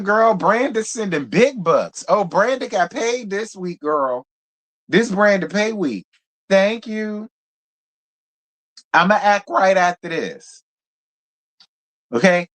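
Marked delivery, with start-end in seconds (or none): none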